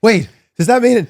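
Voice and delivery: high, loud, rising excitement; excited fan. Retold or imitated. Fan at the show realising the boss may sign him, excited. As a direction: gasp like a thrilled fan.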